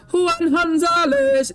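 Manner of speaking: very high, drawn-out name call; playful sustained high holler; hammed-up announcer call. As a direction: stretch the name out like a ring announcer.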